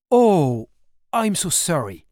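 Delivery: mock-clueless apology in a thick French accent; girl fakes a thick French accent to cover her lie; heavy French accent. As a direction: lay the French accent on thick, "I'm so sorry" as a lost foreigner. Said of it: "en forçant à fond mon accent de Frenchie".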